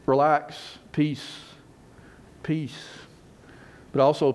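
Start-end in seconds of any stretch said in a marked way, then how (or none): 0.9-2.8 soft, reassuring single word with space around it; soothing, relaxed. Acted. Jesus calming his startled disciples, relaxed and soothing. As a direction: say it to settle them down. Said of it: "one is just relax".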